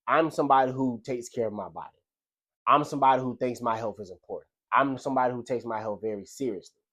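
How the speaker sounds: steady, assured self-talk; confident affirmation. Shown as a demonstration. Telling himself who he is, firm and assured. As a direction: declare it like you mean it. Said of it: "You see how that tone is different?".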